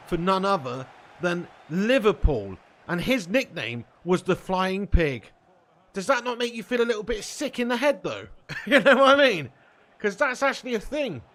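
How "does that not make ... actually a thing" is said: high, loud laughing disbelief. Real, not acted. Streamer laughing at a grim football nickname. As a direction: laugh it out, half disgusted.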